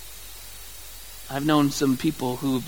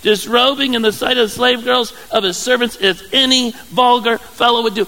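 sarcastic; 5 semitones higher, 4 dB louder than usual. Retold or imitated. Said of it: "you can see how sarcastic she's gonna be".

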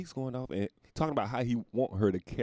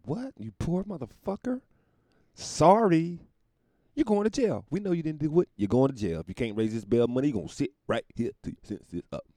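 higher, louder, callous sentencing; mock judge; 8 semitones higher, 6 dB louder than usual. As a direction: dismiss the poor man coldly. Mock judge to poor defendant.

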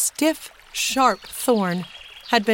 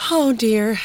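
sighing; 2 semitones higher, 4 dB louder than usual. A narrator's reading. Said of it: "sighed Jess".

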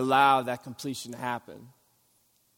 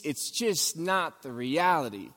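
normal talking voice

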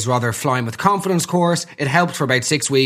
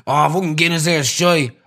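mock Irish lad. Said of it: "complaining about the pints of Guinness".

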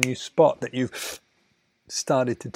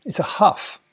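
huffing; 6 semitones higher than usual. Shown as a demonstration. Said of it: "they go".

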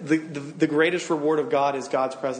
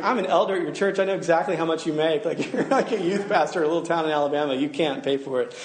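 laughing elder. Retold or imitated. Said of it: "He's like".

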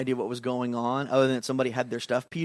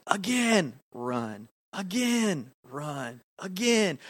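lightly imitated coach giving sprint orders; coach's drill command; 5 semitones higher, much slower than usual. Camp leader running boys through sprints, retold drill commands.

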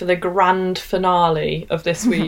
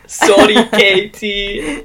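put-on Scottish accent; much slower than usual. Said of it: "attempting the accent".

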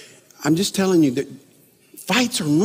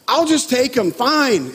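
retold huffy, higher-pitched concession; imitated exasperation; 6 semitones higher, slower than usual. Wife finally giving in to husband, imitated exasperation. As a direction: give in crossly, mimicking an annoyed wife. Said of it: "she's getting really mad".

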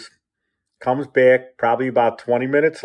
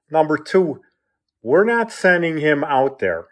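higher, emphatic retold refusal; firm refusal; 5 semitones higher than usual. Mother refusing to send the boy out, firm. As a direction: retell a mother putting her foot down. Mother overrules her husband.

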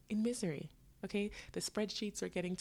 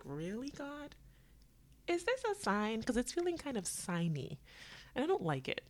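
a high, mock-exasperated appeal to the sky; exasperated plea; 6 semitones higher than usual. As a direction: complain upward, pitched high. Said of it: "And I was like".

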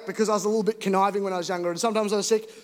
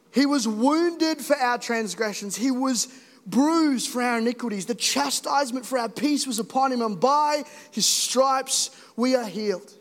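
scripture recitation. Acted. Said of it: "reciting Isaiah".

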